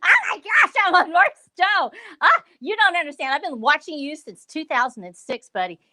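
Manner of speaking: playful mock fangirl gushing at the host; fangirl squeal. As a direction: squeal and gush like a starstruck fan. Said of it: "I need to do a fangirl squeal".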